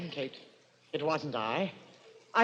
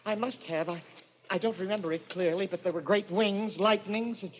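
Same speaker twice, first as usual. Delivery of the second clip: hushed confusion; 2 semitones lower, 5 dB quieter than usual. Acted. Killer's dazed recollection.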